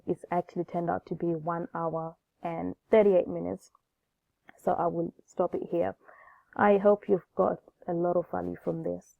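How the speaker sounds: hoarse voice from a cold; groggy voice. Real, not acted. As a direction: talk through a head cold, groggy. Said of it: "I'm sorry about my groggy voice".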